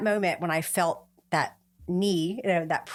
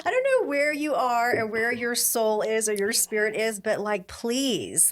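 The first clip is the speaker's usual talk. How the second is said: exasperated plea; 4 semitones higher than usual. Retold or imitated. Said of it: "just angry".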